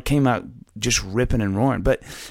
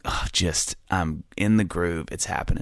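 whispered inner gloating; 5 semitones lower, 5 dB quieter than usual. Retold or imitated. Retelling his inner thoughts.

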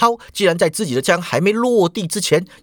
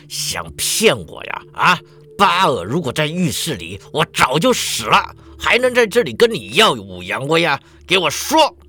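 menacing hitman. Acted. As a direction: threaten her with the gun. Hitman threatens Shuhua at gunpoint.

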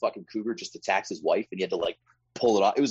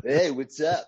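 sleazy snake greeting, pitched up; 7 semitones higher, 3 dB louder, much slower than usual. Retold or imitated. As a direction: play a slimy snake saying hi. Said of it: "That's my impression of a snake".

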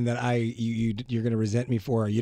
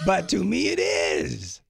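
insistent shout; 5 semitones higher, much slower than usual. Real, not acted. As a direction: push back hard on her. Husband insists in argument.

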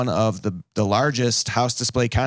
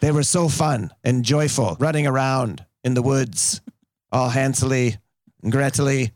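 put-on storyteller to kids; 3 semitones higher than usual. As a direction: tell it like a kindergarten teacher.

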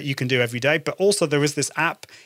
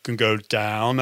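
pitch going down; 4 semitones lower, slower than usual. Shown as a demonstration. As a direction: voice slides down low on DOWN. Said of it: "we change the pitch".

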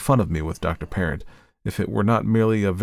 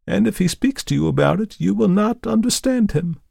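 hypnotic command; 13 semitones higher, 3 dB louder than usual. A narrator's reading. Hypnotist gives orders.

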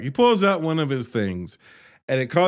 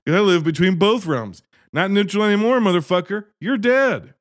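raised, smug mock threat; villain taunt; 5 semitones higher than usual. Dragon villain gloating at John Ritter, smug raised mock threat. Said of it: "He's like".

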